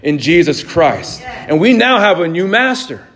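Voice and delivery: emphatic preaching. Real, not acted. Preacher telling the congregation sin's mastery dies, emphatic preaching. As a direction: preach it out for the amens.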